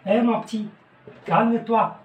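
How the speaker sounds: put-on a parent lightly raising voice to settle a child; calming a child. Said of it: "شتي ولد كيدير الشغب".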